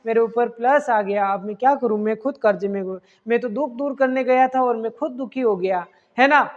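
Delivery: oxygen laments its debt to the class, mildly sad. Retold or imitated. Mock-gloomy complaint, understated. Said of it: "oxygen क्या कहेगा".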